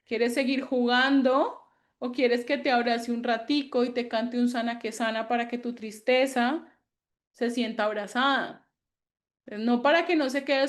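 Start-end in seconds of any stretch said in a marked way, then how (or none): 0.1-8.7 put-on tender parent consoling a crying child; gentle comforting. Shown as a demonstration. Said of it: "pues le digo".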